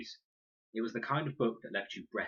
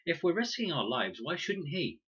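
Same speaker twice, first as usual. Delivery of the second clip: indignant; 9 semitones higher, 5 dB louder than usual. A narrator's reading. Con argues hotly.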